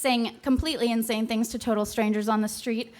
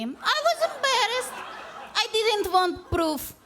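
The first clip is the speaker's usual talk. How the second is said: high, laughing narration that breaks into giggles; slow, laughing at her own embarrassment; laughing through it; 10 semitones higher than usual. Real, not acted.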